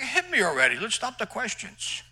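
high, loud, then slowing dare; impatient shout. Retold or imitated. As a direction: push him to just hit you.

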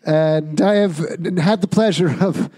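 booming mock host intro; talk show host. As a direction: announce it like a late-night host.

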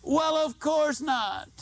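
slow, drawn-out wry confession; wry admission. Acted. Owning up to the audience about the canceled flight, slow and wry. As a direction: admit it with a grin.

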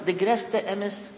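very slow, deliberate proverb; quoting a saying. Retold or imitated. Quoting a Yiddish proverb to the audience, slow and deliberate. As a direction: lay out each word of the old saying. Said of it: "sagt man".

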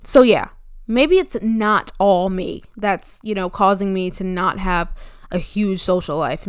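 just after a sip of coffee; talking right after swallowing coffee; while sipping a drink. Real, not acted. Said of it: "let me take a sip of my coffee".

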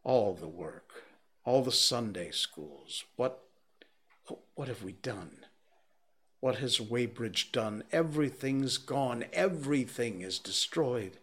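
rising to high anguished cries; distraught lament. A narrator's reading. Curate mourning his church, rising to a high cry.

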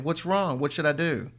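high, frightened pleading; panicked crying. Acted. Wife crying over her collapsing husband, frightened. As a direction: beg for help in a panic. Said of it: "she screamed, crying".

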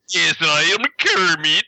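slow mock Eastern European accent. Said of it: "the accent he had as Kermit".

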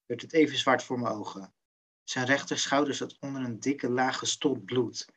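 measured, restrained book reading; understated thriller narration; suspense story narration. A narrator's reading. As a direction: read the tense passage aloud, letting phrases tail off. Reads a book passage aloud.

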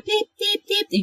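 high-pitched electronic beeps; imitated beeping. Host likening the soothing voice to an EKG, high beeping. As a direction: pipe short, high beeps like a monitor. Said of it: "így ilyen csipogva".

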